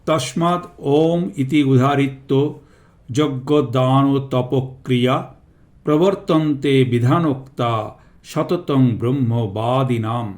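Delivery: measured Sanskrit shloka recitation; verse recitation. Real, not acted. Teacher reciting a Gita verse before explaining it, measured recitation.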